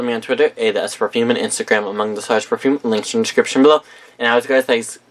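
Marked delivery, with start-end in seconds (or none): 4.2-5.0 stumbling over "And as always, guys," words slurred together; garbled "And as always, guys," mid-flub; tongue-tied. Real, not acted. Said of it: "I cannot talk".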